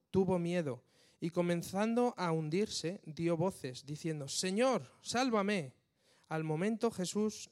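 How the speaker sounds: fervent scripture reading. Acted. Preacher reading the sea story to the congregation, fervent reading. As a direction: let the story of the storm swell in the reading. Reads Matthew 14 aloud.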